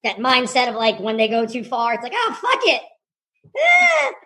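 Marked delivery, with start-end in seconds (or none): 2.2-4.1 higher, offhand "oh, fuck it"; careless shrug. Retold or imitated. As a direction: toss it off like you don't care. Careless young staff voiced.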